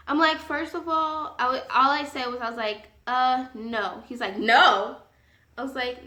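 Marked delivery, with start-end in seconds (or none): 3.1-4.0 hesitant, unimpressed refusal; understated, dubious no; reluctant refusal. Retold or imitated. Acts out her own refusal. 4.4-5.0 louder, affronted echo of a refusal; mock-offended man's one-word challenge; incredulous echo. Acts out his incredulous echo.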